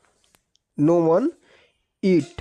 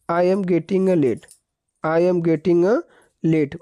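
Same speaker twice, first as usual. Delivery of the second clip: slow dictation; slower than usual. Shown as a demonstration. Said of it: "English same ही होगा".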